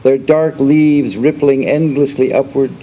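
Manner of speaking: deliberate recital, each line lifted then falling away; poetry reading. Acted. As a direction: recite it image by image, pausing between lines. Reads poem aloud.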